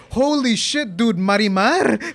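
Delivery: excited roommate. Retold or imitated. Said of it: "my roommate's like".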